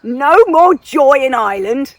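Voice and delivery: loud, drawn-out mock decree; booming hammed-up ban; English colonial bully. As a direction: proclaim it as a tyrannical English invader. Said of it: "the English came in and said".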